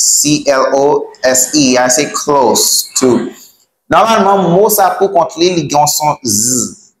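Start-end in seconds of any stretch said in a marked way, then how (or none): 2.1-3.3 hiss-ended CLOSE, then separate TO; model pronunciation. Shown as a demonstration. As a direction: CLOSE TO slowly, with an S sound in CLOSE. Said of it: "listen to the way I pronounce".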